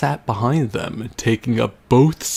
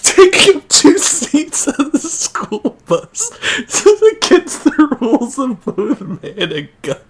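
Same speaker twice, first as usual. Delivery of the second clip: mock dramatic; 14 semitones higher, 5 dB louder than usual. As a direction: announce it like a trailer voice then crack. Hammy reread, breaking into laughter.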